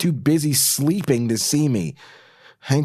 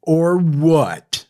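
defiant challenge; 3 semitones higher, 6 dB louder than usual. Acted. Kristen challenging Norman.

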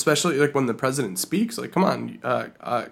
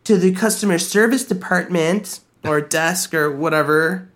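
store PA announcement, a bit higher; flat echoey pa page; 5 semitones higher than usual. Pretend. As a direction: read it like a store loudspeaker page. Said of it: "have its name called over the P A system".

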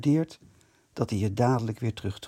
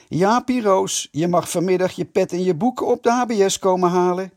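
calling inside; 5 semitones higher, 5 dB louder than usual. A narrator's reading. Tony calls to Jaap inside about his cap, loud mocking. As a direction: call it in through the door, taunting. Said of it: "riep naar binnen".

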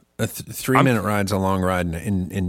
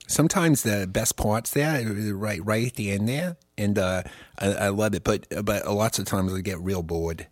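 put-on New York accent. Chatting about whole songs, put-on New York accent. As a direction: play a chatty New Yorker, lightly hammed up. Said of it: "to actually do this accent right".

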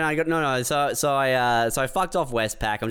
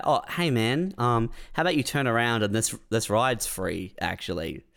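calm and polite; 2 semitones lower than usual. Retold or imitated. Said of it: "I would have honestly probably gone with".

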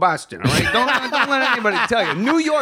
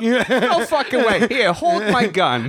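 Boston cop voice. Retold or imitated. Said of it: "this Irish cop".

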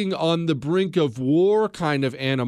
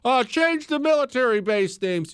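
mocking whine; 9 semitones higher than usual. Mocking people he calls idiots.

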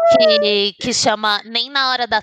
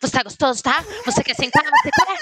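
mock bedroom questions; 3 semitones higher than usual. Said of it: "o que tá perguntando".

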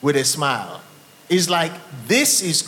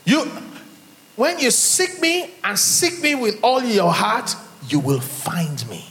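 solemn voice of God; 4 semitones higher than usual. Acted.

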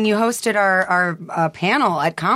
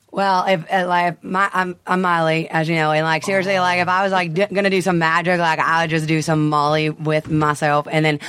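A pop singer impression. Acted. Improvised pop star talking about magic, rambling impression. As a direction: ramble in a pop singer impression, filler-laden. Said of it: "Miley Cyrus? What's a way to do her quick?".

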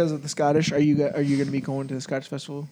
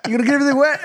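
raised, higher-pitched mock scolding; dad scolding; 8 semitones higher, 4 dB louder, much faster than usual. Dad warning friend in the pool, raised scolding. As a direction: imitate a dad calling out a warning. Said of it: "And my dad goes".

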